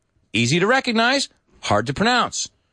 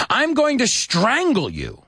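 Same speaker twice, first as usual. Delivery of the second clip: slow menace; 11 semitones higher, slower than usual. Acted. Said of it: "it says".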